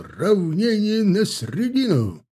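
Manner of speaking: slow, high parade-ground call; drawn-out command. A narrator's reading. Officer ordering the ranks to dress: slow, high drill call. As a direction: stretch the command across the square. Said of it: "рявкнул он, что было сил".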